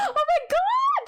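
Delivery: high, thrilled squeal of delight; excited gasp. Real, not acted. Chat reader squealing with delight at the news. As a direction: gush over a friend's good news.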